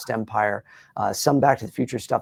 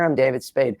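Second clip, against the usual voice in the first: David Spade voice. Shown as a demonstration. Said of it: "If I go up here".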